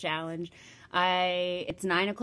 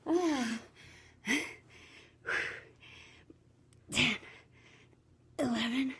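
doing push ups; 6 dB quieter, slower than usual. Real, not acted. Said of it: "My arms are dying".

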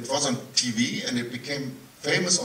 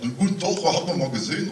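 Saxon dialect; faster than usual. Retold or imitated. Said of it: "He, he speaks that dialect".

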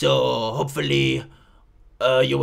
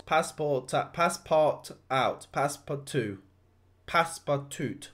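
hammed-up French accent; mock Frenchman's English; bad French accent. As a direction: put on a cheesy French accent. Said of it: "What a shit French accent".

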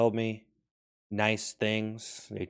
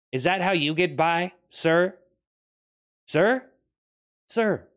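high mock-gentle voice; 8 semitones higher, 7 dB louder, slower than usual. Absurd comic address to a sir.

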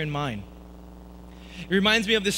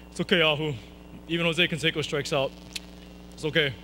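consoling coach; 4 semitones lower, 3 dB quieter than usual. Retold or imitated. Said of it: "consoling me like coaches do".

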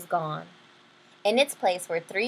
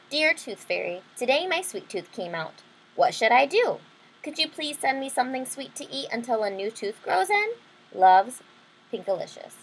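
gentle read-aloud of a letter; story narration. A narrator's reading. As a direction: read the note like a little girl.

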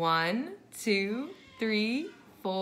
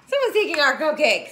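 fast, louder alarmed cry; 3 semitones higher, 4 dB louder, much faster than usual. Acted. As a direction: rush it out in alarm. Alarm at missing cupcakes.

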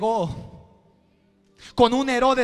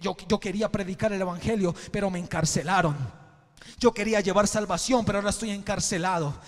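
Pablo wondering; 3 semitones lower, 4 dB quieter, faster than usual. Acted. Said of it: "Pablo lo primero que dijo".

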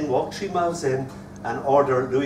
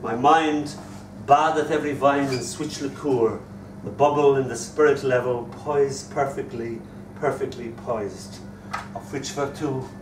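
poem recital. Acted. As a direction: savour each phrase of verse, then taper away. Recites poem woven with Chaucer.

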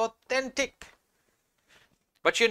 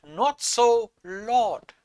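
protesting Peter; 4 semitones higher, 4 dB louder, much slower than usual. Acted. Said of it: "But Peter said".

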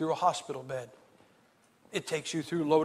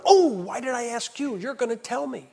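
higher, louder mock groan of regret; mock exasperation; 7 semitones higher, 5 dB louder than usual. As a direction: ham up the regret of asking. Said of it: "I went".

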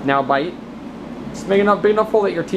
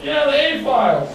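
helium voice; 9 semitones higher than usual. Real, not acted. Helium voice business talk.

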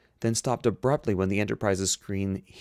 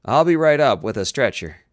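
loud, raised, emphatic; urgent and brusque; 4 semitones higher, 9 dB louder than usual. A narrator's reading. Doctor to injured captain over communicator, loud and urgent. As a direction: announce it forcefully, allowing no argument.

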